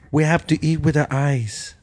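put-on half-done Filipina accent; attempted Filipina accent. Co-host imitates the actress's line, half-hearted Filipina accent. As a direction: try a light, mixed Filipina accent. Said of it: "trying to do a Filipina accent".

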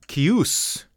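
"Kius" with the weight on a rising OOS; ky-OOS, lifted on the second syllable; second-syllable stress. Shown as a demonstration. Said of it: "emphasis on the second syllable".

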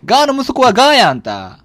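nagging Osaka mum voice; loud nosy Osaka auntie. Acted. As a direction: scold him like a pushy Kansai mother. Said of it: "なんでババアのままなの？".

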